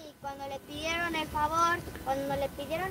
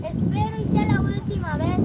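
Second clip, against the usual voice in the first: louder, sharp final warning; angry warning; 3 semitones higher, 8 dB louder than usual. Acted. Mother warning her son for the last time, loud and angry. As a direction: lay down the last warning with anger.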